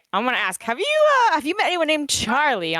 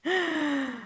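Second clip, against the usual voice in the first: high, soft gasp; dramatic gasp; 8 semitones higher, 5 dB quieter than usual. Acted. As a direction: draw in a sharp breath. Player reacts in character.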